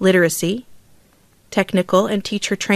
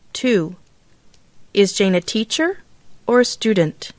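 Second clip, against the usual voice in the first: each "or" question goes up first, then comes down at the end; rising falling tone. Shown as a demonstration. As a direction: rise on the first choice, fall on the last: "house" rises, "flat" falls. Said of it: "Practice reading these sentences with the rising falling tone".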